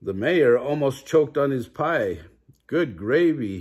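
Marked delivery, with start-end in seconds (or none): 2.7-3.6 sputtering. A narrator's reading.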